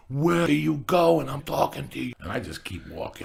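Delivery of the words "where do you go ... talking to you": retold yell. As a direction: imitate a guy hollering after his girlfriend. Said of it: "yells off the top of his lungs".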